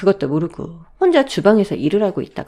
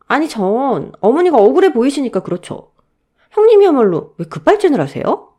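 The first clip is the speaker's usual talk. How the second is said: higher, louder indignant protest; defiant younger sister-in-law; raised-voice backtalk; 6 semitones higher, 7 dB louder than usual. Acted. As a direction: answer back to an elder, voice raised. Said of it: "언성을 높이고 대들어".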